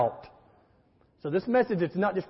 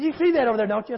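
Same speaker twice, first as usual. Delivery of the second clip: higher-pitched mock scolding; retold angry yelling; 4 semitones higher, faster than usual. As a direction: imitate an angry churchgoer's accusing demand. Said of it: "I'm getting yelled at".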